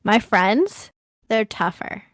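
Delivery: slow, loud threat; menacing warning. Acted. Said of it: "I kinda warn him".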